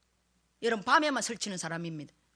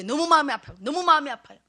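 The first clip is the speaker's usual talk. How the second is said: anguished cry; 3 semitones higher, 9 dB louder, faster than usual. Retold or imitated. Anguished prayer.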